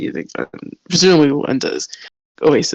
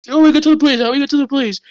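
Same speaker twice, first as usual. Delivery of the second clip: mocking guard; 8 semitones higher, much faster than usual. Elijah mocking.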